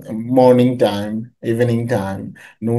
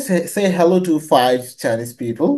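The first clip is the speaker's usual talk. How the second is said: slow reading; much slower than usual. Shown as a demonstration. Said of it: "একটা activity আছে".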